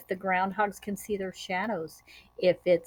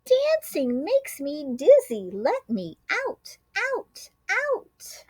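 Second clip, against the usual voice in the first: dizzy groundhog shout; 9 semitones higher than usual. A narrator's reading. Groundhog shouting to be let out of the den. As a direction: call out, dizzy and desperate. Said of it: "announced with a shout".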